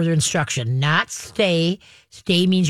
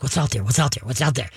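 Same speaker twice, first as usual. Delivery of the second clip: low, repetitive curious dog voice; distracted dog; 4 semitones lower, faster than usual. Trainer voices dog looking around, low and distracted. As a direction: lower it and repeat like a distracted dog.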